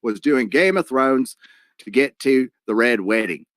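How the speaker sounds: lightly put-on, bad Australian accent; terrible Australian accent. Livestream host reading a viewer's paid message, terrible Australian accent. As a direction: read it in a half-hearted Australian accent. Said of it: "I'm gonna do a terrible Australian accent".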